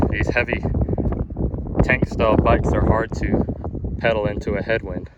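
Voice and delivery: out of breath while riding; winded and puffing; gasping for air. Real, not acted. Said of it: "Sorry, I'm out of breath".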